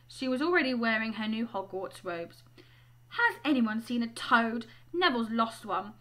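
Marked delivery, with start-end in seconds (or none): 3.1-5.9 lightly voiced bossy schoolgirl; a hint of brisk authority; bossy girl. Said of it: "She had a bossy sort of voice".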